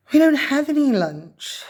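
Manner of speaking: put-on mildly sad hungry boy. A narrator's reading. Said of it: "said Roosevelt sadly".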